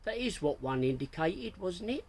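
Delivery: hammed-up posh English. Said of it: "in an exaggerated posh voice".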